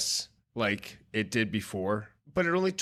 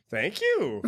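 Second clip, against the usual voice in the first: higher, laughing thank you; mock odd Pullman thank you; 6 semitones higher than usual. Mocking Pullman's delivery to friends, laughing. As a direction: ham up the awkward line with a laugh. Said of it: "Bill Pullman's line delivery".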